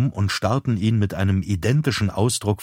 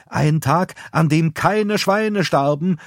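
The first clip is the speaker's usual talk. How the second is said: mild exclaiming; 8 semitones higher, 3 dB louder, slower than usual. A narrator's reading. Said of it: "rief Roxy aus".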